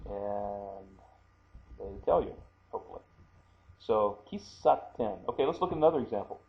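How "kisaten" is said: Kisaten with a held stop before ten; geminate pause. Shown as a demonstration. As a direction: pause briefly on the doubled consonant in Kisaten. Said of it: "So kisa and then ten".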